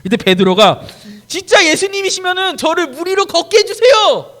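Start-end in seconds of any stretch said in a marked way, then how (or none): 1.3-4.3 pleading Peter. Acted. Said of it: "라고 했어요".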